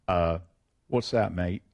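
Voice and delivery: mock-English mum, low and unhurried; English accent. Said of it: "She had an English accent".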